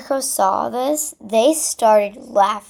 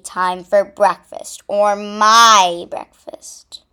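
cunning; 6 dB louder, much slower than usual. Acted. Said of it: "Tommy said cunningly".

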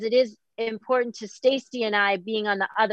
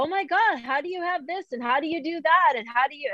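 imitating amazed fans, pitched up; gushing admirers; 5 semitones higher than usual. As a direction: mimic people gushing over her, a mock high voice. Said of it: "people go".

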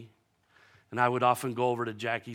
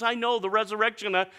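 a hint of impatient Martha; 10 semitones higher, 6 dB louder than usual. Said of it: "She goes".

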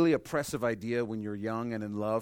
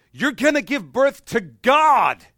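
mock excited announcement; 10 semitones higher, 13 dB louder, slower than usual. Mock wrong angel greeting.

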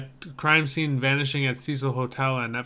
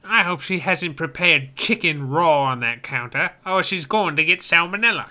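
rough guttural orc roar; 3 semitones higher, 4 dB louder than usual. Acted. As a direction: rumble it like an orc. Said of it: "all the orc voice I can muster".

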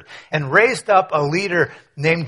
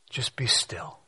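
soft whispered stillness; hushed whisper; 4 semitones lower, 10 dB quieter than usual. Real, not acted. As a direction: breathe "Just be still" on a whisper, no voice. Echoes Moses' words in hush.

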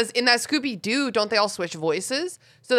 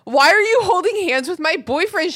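outraged; 7 semitones higher, 4 dB louder than usual. Retold or imitated. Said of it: "she asked, outraged".

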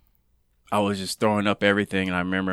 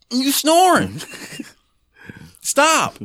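much higher, louder mock scold; retold exasperated snap; 7 dB louder, much slower than usual. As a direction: cut her off, high and sharp. Scolding mom for snoring.

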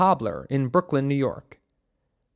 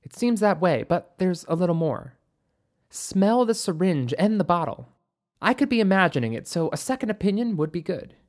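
doctor's voice pitched up a little; lightly voiced doctor; 4 semitones higher than usual. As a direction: offer a careful finding in a lighter, higher voice. Narrator voices doctor in dialogue.

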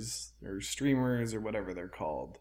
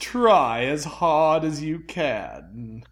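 slow, silky villain voice; 2 semitones higher, 6 dB louder, slower than usual. Pretend. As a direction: coax them like a polite villain. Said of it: "This is just his voice now".

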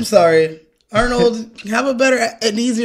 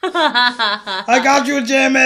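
put-on Arnold accent; 5 semitones higher, much slower than usual. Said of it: "every time Howard says".

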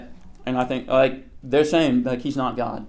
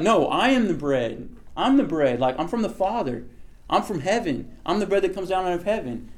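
lightly acted, higher-pitched correction; mild insistence; 5 semitones higher than usual. Jesus correcting the hungry crowd, mildly insistent. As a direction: patiently press the point home.

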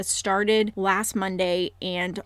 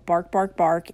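playful dog-bark words; 2 semitones lower, 3 dB louder than usual. Pretend. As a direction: bark it out like a puppy. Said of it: "bark like a dog".

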